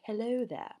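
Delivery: proper, enunciated Queen's English greeting. Shown as a demonstration. Showing how mum was taught to talk, proper Queen's English. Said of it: "Queen's English, proper, like".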